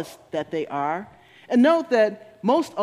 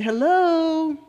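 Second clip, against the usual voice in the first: a lightly voiced God, higher, calling hello to get your attention; God lovingly calling out; 3 semitones higher, slower than usual. God nudging a person who ignores the warning signs, lightly voiced, higher and lovingly insistent. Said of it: "that God is lovingly telling you".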